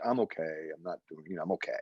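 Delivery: low, subdued imitation of daughter; softly insist, unconvincingly, that all is fine; retold downcast reassurance; not really okay. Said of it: "I could tell she wasn't okay".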